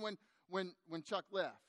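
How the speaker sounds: ordinary talk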